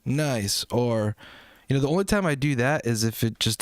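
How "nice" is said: breezy, higher mock-generic compliment; empty praise. Coach mocking lazy feedback with a breezy higher compliment. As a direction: toss off a hollow compliment. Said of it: "rather than just simply say".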